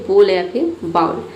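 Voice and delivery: बोल said as "bol", then बाउल as "baul"; two pronunciations. Shown as a demonstration. Teacher showing students both ways to say bowl. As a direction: give both बोल and बाउल, slightly slow. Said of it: "दोनों pronounce कर सकते हैं".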